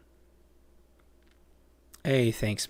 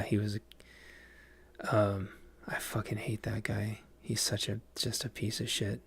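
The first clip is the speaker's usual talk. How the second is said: whispering; 6 dB quieter than usual. Real, not acted. Whispered aside about a disliked actor.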